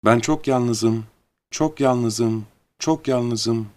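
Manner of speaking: drawn-out echo, fading a little. A narrator's reading. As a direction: repeat it slowly like a mountain echo. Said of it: "Sadece sizin söylediklerinizi tekrarlıyorlar". (yankı gibi, uzatarak ve hafifleyerek)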